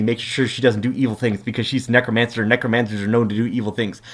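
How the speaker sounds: low muttered echo of the assistant's words; Jace rattling it back. Retold or imitated. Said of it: "Jace is like".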